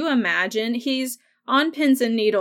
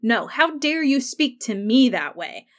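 mildly heated retort, stress on "me"; retold angry retort; 3 semitones higher than usual. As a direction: throw it back at her, leaning on "me". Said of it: "he gets in her face".

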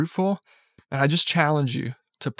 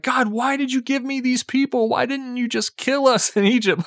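retold anguished cry; 8 semitones higher than usual. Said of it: "crying out to God".

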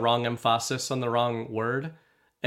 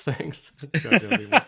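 laughing; 5 semitones higher, 5 dB louder than usual. Real, not acted. Mocking the judge's name.

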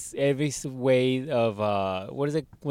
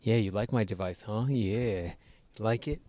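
Steve Jobs; 3 semitones lower, 7 dB quieter than usual. Retold or imitated. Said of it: "Steve Jobs where he's like".

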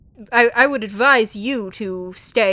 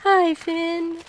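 fish voice; 8 semitones higher than usual. Acted. Fish greeting Finn.

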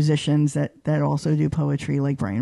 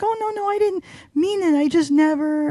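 much higher, flustered voice for the other person; flustered backpedal; 13 semitones higher than usual. Retold or imitated. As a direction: play the other person scrambling to take it back. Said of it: "They're like".

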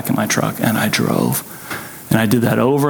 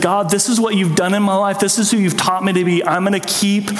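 fervent prayer; 6 semitones higher than usual. Retold or imitated. Grieving widower praying to God, raised and fervent. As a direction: pitch climbing high with resolve. Prayer voiced in retold story.

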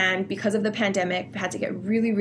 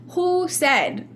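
indignant; 5 semitones higher than usual. Real, not acted. Challenging the rules people live by.

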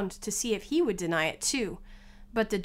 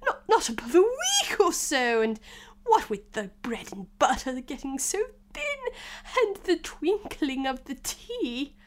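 trembling voice; 5 semitones higher than usual. Acted. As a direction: quaver through it, stumbling and high. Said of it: "began in a trembling voice".

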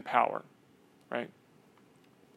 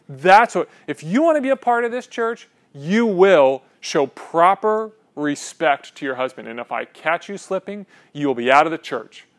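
mock domineering pastor; 2 semitones higher, 4 dB louder than usual. Impersonating a chauvinist pastor.

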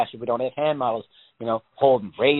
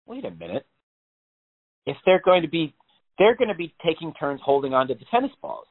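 a hint of mock panic; 4 semitones higher than usual. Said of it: "panic attack moment".

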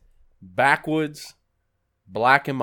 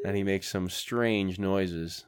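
sports-style commentator, slightly lower; mock commentary; 4 semitones lower, 3 dB quieter, slower than usual. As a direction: narrate like a play-by-play. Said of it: "Now, commentary".

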